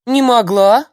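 high, loud startled "Не могла" rising; surprised. A narrator's reading. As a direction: gasp out "Не могла" in disbelief. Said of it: "удивилась бабка и даже растерялась".

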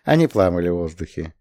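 usual speaking voice

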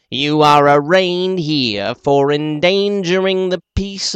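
a lightly voiced orator's drone; shrill sing-song. The little man reading the charge, a light sing-song. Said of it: "shrill sing-song".

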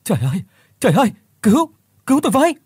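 high, loud, fast cries for help; shrieking, running from a ghost; panicked screaming. Acted. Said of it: "miệng thì la hét bai bai".

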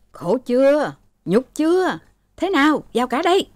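high-pitched anguished reproach; acted exasperated father; bitter scolding. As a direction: berate the children in despair. Sick father berates his quarrelling children.

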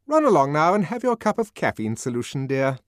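brisk nurse. A narrator's reading. Head nurse to the other nurse, brisk and patronising. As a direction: send her off with restored authority.

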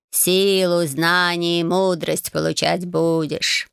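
slow, unhurried talking cat; an old storybook cat taking his time. Acted. Talking cat Bayun greets the new Marya, slow and unhurried.

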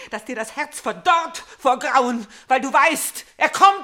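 building from loud to a high, loud cry; rising triumphant threat. Acted. Elektra taunts her mother that the brother is coming, building to a cry. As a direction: crow over her growing fear.

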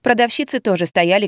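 usual speaking voice

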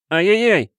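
put-on high pained wail of a boy. Boy wails as the dagger pricks his chin. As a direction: cry out in sharp pain. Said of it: "запричитал я".

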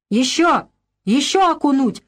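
the women shout to dunk him again; vengeful shouts. A narrator's reading. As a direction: urge the dunking on. Women dunking the man.

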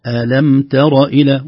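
slow ألم ترى إلى with a thin "te"; light ta. Shown as a demonstration. Teacher restores the correct verse, light ta. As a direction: keep ترى opening light, not emphatic. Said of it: "لا نقول ألم ترى طا".

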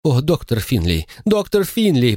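rising to a high wail on Финли; moaning woman. A narrator's reading. Mother to doctor Finlay, moaning high. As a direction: call the doctor in a high moan. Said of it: "простонала женщина".

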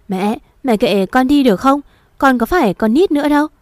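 fast, high and annoyed at his mother; irritated snap. Acted. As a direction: brush her off impatiently. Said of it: "Nó cáu lên với mẹ nó".

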